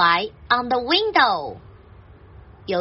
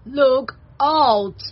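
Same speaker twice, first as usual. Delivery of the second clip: pig's drawn-out warning call; put-on piggy cry of warning; 4 dB louder than usual. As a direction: call out the alarm in a pig voice. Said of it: "Cried Pig".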